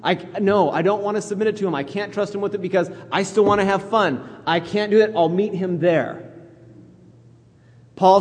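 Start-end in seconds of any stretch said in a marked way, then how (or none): 0.0-6.3 higher-pitched, mock excuse-making; hesitant objector. Voicing a listener who still wants fun, mock excuses. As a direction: lightly act out someone making excuses. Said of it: "if you're saying".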